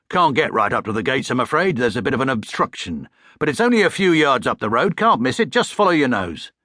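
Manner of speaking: a hint of a cheery cockney cabbie; friendly cabbie giving directions; cockney taxi driver, lightly done; lightly voiced London cabbie. Cabbie character voice.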